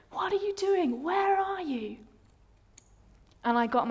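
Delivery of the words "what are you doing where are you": high-pitched plaintive fury, no longer shouted; raging, dying down. Retold or imitated. Retelling her demand that God answer, raging but subsiding. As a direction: let the mock tantrum thin out, still high. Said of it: "I was raging. I was going".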